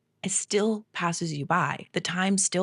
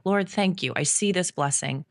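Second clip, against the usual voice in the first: prayer. Retold or imitated. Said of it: "that's how I say thank you".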